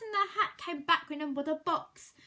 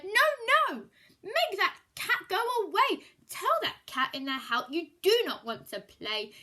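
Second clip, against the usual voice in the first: alarmed fish; 2 semitones higher, 7 dB louder than usual. Acted. Fish yelling at the children to send the cat away. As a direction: shout the fish's objection. Fish protests in read-aloud story.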